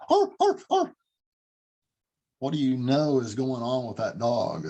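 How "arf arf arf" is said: arfs shot way up high; squeaky frightened dog arfs; high anxious bark. Shown as a demonstration. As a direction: yelp like a scared dog. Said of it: "That pitch goes way up here".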